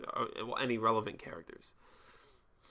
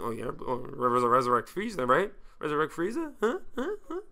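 rising, needling questions; mock eager prodding; 3 semitones higher than usual. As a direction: pester with higher and higher little huhs. Mocking Krillin over the resurrection plea.

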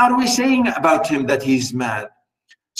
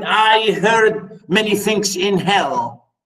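slow dramatic reading; 2 semitones higher, much slower than usual. Acted. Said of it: "And he said".

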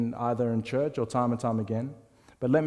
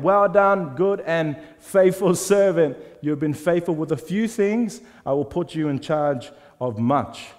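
slow, loud, proud blessing; master praising servant; 4 semitones higher, 4 dB louder, slower than usual. Acted. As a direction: bestow praise like a pleased lord, slowly.

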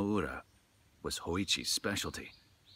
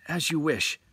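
lightly voiced Hoichi; 8 semitones higher, 6 dB louder than usual. A narrator's reading. Hoichi replies to attendant.

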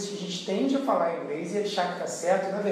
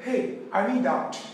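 slow demo; much slower than usual. Shown as a demonstration. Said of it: "Aí você vai dizer".

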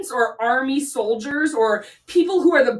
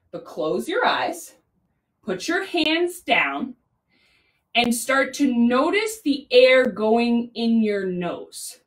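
slow, soothing breathing cue; guided meditation; slower than usual. Real, not acted. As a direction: ease them into stillness with long pauses. Leads children into breathing stillness.

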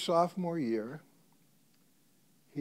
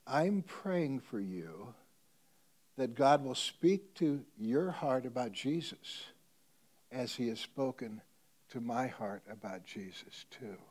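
tender; slower than usual. Retold or imitated. Teacher's tender parting words.

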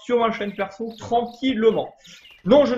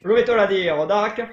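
lightly put-on Italian accent; mock Italian game-character accent; bad Italian accent. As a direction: read it in a cheesy Italian accent. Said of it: "Quel accent italien magnifique".

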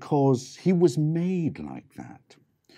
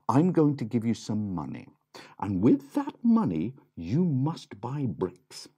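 gentle mum; 3 semitones higher than usual. Acted. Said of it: "their mum said".

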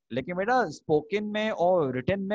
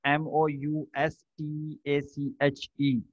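slow spelling out; much slower than usual. Shown as a demonstration. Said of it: "मूछों को English में बोलते हैं मुस्टैश".

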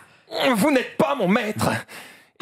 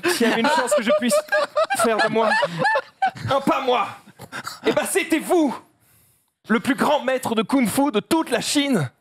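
emotional panda. Acted. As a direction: open up, half laughing. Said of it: "je fais le panda". (panda ému)

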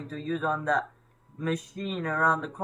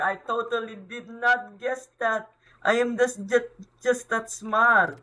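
sarcastic brag; 5 semitones higher, 3 dB louder than usual. Real, not acted. Joking brag after guessing.

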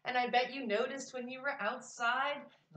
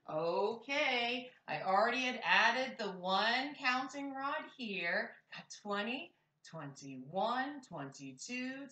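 put-on teaching a child to count. Shown as a demonstration. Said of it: "Count with me by tens".

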